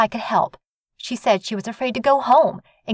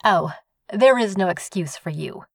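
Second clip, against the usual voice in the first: high sharp female snap; snapping; 8 semitones higher, 4 dB louder than usual. A narrator's reading. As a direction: snap it with disdain. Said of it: "she snapped".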